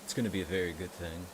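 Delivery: folksy shopkeeper with a southern lilt, pitch jumping up on the welcome; Tom Nook voice. Acted. Streamer voicing Tom Nook welcoming the player after a nap, southern lilt. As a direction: greet the sleepy islander like a cheerful southern landlord. Reading Tom Nook's dialogue.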